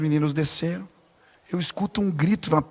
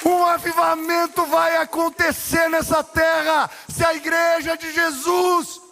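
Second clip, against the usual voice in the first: preaching at full force; 9 semitones higher, slower than usual. Acted. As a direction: shout it over the congregation. Preaching climax, shouting.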